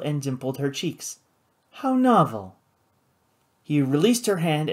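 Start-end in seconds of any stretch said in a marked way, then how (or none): 1.7-2.6 high, lilting coo. A narrator's reading. Woman meeting a pirate, cooing. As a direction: coo it with a falling tune. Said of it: "she cooed".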